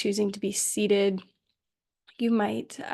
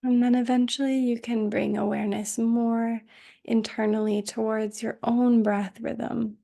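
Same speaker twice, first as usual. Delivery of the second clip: calm, unhurried meditation voice with long pauses; guided meditation. Acted. Teacher settling students into Yoga Nidra, calm guided meditation. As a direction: guide them gently into rest, leaving space between phrases.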